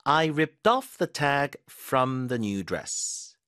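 very slow, each word laid out for learners; slow model sentence. Shown as a demonstration. Teacher reading an example sentence slowly. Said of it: "태그 떼내볼게요".

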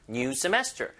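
"semester" with the accent on "mes"; stress on middle syllable. Shown as a demonstration. Teacher repeats after explaining the accent, middle of "semester" stressed. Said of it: "이거 중간에 강세입니다".

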